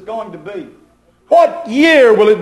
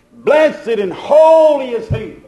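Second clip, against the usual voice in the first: slow, ringing preacher's proclamation; preached scripture; 4 semitones higher, slower than usual. Acted. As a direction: lean into "holy" and let it ring out slowly. Preacher quoting scripture with force.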